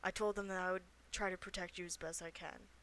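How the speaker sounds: soft, hushed pleading; half-whispered. Acted. Player bargaining with a hidden character, half-whispering. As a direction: coax them quietly out of hiding. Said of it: "I'll kinda whisper".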